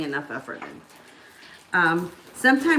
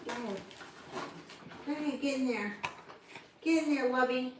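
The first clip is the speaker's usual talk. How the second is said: soft coaxing; 9 dB quieter than usual. Real, not acted. Coaxing baby into bouncer.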